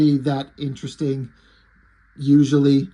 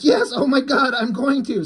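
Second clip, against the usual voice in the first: higher, hammed-up moans of pleasure; mock ecstatic cry, higher; mock ecstasy; 7 semitones higher than usual. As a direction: play her peaking, overdone. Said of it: "And she's like".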